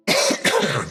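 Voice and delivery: demon cough. Acted. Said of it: "Demon coughing".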